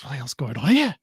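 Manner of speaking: gruff northern English bloke; broad Yorkshire-style complaint; northern accent. Acted. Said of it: "conjured up your inner northerner".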